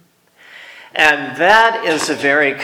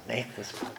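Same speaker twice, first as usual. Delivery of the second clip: much softer repeat of "make this putt"; quiet pleading; 4 semitones lower, 20 dB quieter than usual. Retold or imitated. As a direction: murmur "make this putt", fading. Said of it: "I got quiet and I'm praying".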